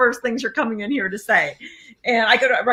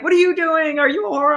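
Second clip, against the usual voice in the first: angry father; 7 semitones higher than usual. Retold or imitated. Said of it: "he's like".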